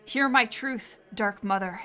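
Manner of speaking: solemn, archaic pleading read; solemn confession. Acted. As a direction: confess like at a dark altar. Ritual confession reading.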